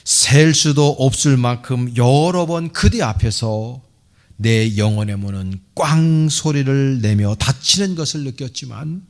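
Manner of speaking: declaimed prose poem with measured pauses; emphatic poetic reading, phrase by phrase; solemn recitation. Acted. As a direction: recite it as an impassioned address to the church. Reads a priest's love letter to church.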